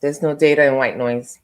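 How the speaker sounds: talking around a mint; words blurred by a mint in the mouth; mouth full. Real, not acted. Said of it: "I had a mint in my mouth".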